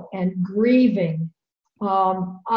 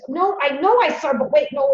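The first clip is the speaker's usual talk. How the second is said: higher-pitched mock confusion; imitated confused uncle; 4 semitones higher than usual. Bereaved uncle rethinking what he saw, imitated in a higher, unsettled voice. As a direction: lightly act out an old man doubting himself. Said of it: "His voice was wobbly".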